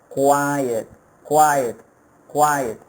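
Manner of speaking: quiet said as two syllables, kwai-et; careful quiet. Shown as a demonstration. Teacher modelling quiet for students. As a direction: drill quiet slowly for the class. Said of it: "the pronunciation is different".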